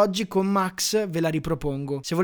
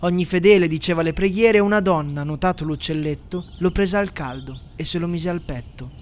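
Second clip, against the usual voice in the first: a lightly solemn storyteller reading verse; a touch of mock-grand narrator; solemn poem narration. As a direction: recite it like a grand old poem over music. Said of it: "la voce soave ed elegante del narratore".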